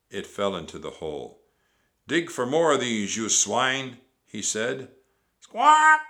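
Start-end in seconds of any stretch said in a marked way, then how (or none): 2.1-4.0 loud, raised-pitch captain's command; pirate captain shouting orders; angry pirate order. A narrator's reading. Pirate captain ordering his men. 5.4-6.0 very high, loud parrot screech; piercing imitation parrot squawk. A narrator's reading. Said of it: "she squawked".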